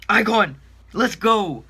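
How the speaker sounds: loud, high cheer; excited shout. Real, not acted. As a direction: yell with joy at the pull. Icon pulled in pack.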